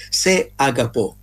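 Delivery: "se agapò" said slowly, stress on the last syllable; careful slow Greek "se agapò", final "pò" stressed; Greek pronunciation. Shown as a demonstration. Unsure Greek lesson for listeners, slow careful Greek. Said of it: "se la pronuncia è corretta".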